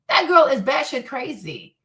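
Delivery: usual speaking voice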